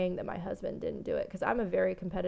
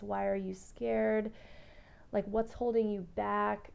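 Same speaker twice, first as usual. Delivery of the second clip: inner critic. Retold or imitated. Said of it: "I was like".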